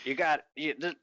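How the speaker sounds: high-pitched, overheated plea; panting from heat. Acted. Furred rider to his mount, panting from heat. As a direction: ask it while wilting from the heat.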